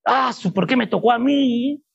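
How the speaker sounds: imitating a reluctant complainer; lightly hammed-up "why me?" moan; mock grumbling. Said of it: "lo hago renegando". (queja fingida, renegando)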